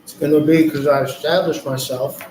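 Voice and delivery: talking while chewing popcorn; words round a mouthful of popcorn; mouth full. Real, not acted. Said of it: "I'm snacking on popcorn".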